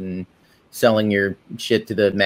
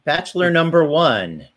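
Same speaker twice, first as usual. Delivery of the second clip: flirty teasing dating host; 5 semitones higher than usual. Pretend. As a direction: tease out each bachelor's name. Introduces guests as dating contestants.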